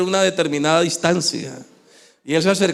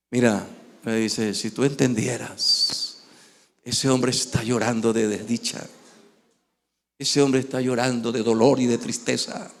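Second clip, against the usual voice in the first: hushed explanation; 5 semitones lower, 7 dB quieter than usual. Retold or imitated. Companion quietly explains the old man's weeping, hushed and low. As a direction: lower and much softer, grave and hushed.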